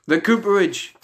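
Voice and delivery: spoken-word recital with a sudden lift; performance poetry. Acted. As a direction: drop down for the question, then proclaim. Poem drops, then lifts again.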